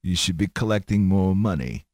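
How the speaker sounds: lightly voiced mob don; a hint of a Godfather impersonation; mock mafia menace, kept restrained; mafia boss. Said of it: "head of a mafia family".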